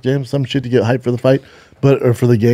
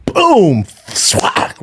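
imitated impact sounds; 6 semitones higher than usual. Mimics the shot in story.

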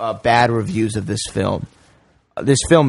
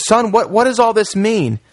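put-on confused old man; 9 semitones higher than usual. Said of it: "and then he goes".

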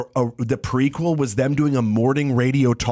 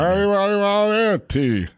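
"tea" stressed by itself after "want a"; mangled retake, T overdone; overhit T; 5 semitones higher than usual. Retold or imitated. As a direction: punch the T so hard it splits off. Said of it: "are you having a stroke?".

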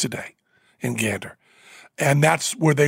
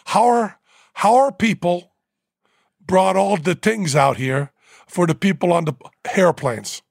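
put-on Newfoundland accent; 3 semitones higher than usual. Host imitating the Newfoundland airport guide, Newfoundland accent. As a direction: imitate Jerry's Newfoundland accent, hairplanes with a strong H. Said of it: "And with that accent".

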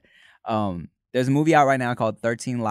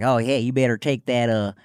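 exaggerated Southern accent; 4 dB louder than usual. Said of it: "super exaggerated".

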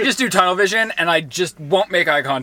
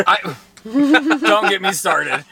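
laughing; 4 semitones higher, much slower than usual. Real, not acted. Laughing about the fight.

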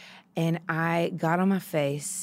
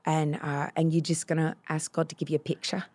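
Mia; 2 semitones lower than usual. Retold or imitated. Prayer leader walks a girl through healing, lightly imitated. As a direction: gently mimic someone leading prayer. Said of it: "You do Mia very well".

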